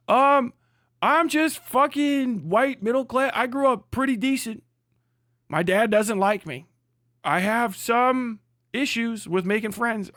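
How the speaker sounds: a lightly voiced sad-sack confession; mock whiny complainer. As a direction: play a sulky suburban guy. Voicing a whiny suburbanite complainer.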